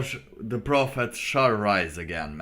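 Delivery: giggling through the words; can't hold back a laugh; amused chuckle in the voice. Real, not acted.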